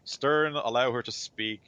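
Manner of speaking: lightly acted order from a council member; commanding Carmelius. Puts up her hand to intervene.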